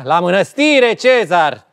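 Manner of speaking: mock-grand irony, stressed on mănăstire; ironic. Shown as a demonstration. Director showing the actress her exit line, ironic. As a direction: send them off with theatrical irony. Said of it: "Ironic, da?".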